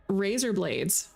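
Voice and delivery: slow, stretched Aussie "razor blades"; lightly attempted Australian accent. Shown as a demonstration. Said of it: "with an Australian accent".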